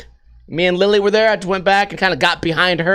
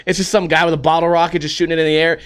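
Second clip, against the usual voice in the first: ordinary talk, nothing marked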